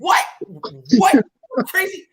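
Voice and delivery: mock yelling up at the car roof; retold yelling. Man stuck mid-highway yelling at himself, shouting. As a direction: yell at the ceiling in disbelief. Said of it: "I'm yelling to, at myself".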